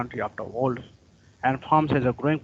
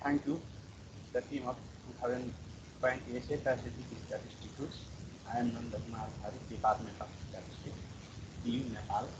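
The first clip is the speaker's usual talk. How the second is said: faint voice far from the mic; barely audible; 12 dB quieter than usual. Real, not acted. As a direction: speak very quietly, almost lost. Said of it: "Your voice is very quiet".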